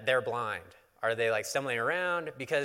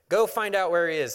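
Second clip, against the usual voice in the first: loud, higher-pitched command; royal order; 6 semitones higher, 8 dB louder than usual. A narrator's reading. King ordering his officers to find the prophet, commanding. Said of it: "the king ordered".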